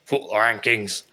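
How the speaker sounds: attempted Geordie accent, lightly done; a quick stab at a Geordie voice. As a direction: Geordie accent, half-hearted imitation. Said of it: "That was my attempt at a Geordie accent".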